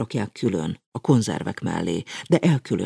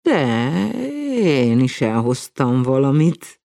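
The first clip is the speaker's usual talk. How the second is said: grinning; 6 semitones higher, 5 dB louder, slower than usual. A narrator's reading. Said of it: "felelte vigyorogva".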